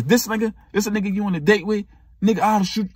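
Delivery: mock threatening boyfriend.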